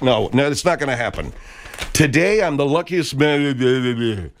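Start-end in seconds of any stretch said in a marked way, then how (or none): 1.9-4.3 slow, halting imitation of the speech; mock Lou Gehrig. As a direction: drag out the famous line slowly. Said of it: "the General's impression of Lou Gehrig".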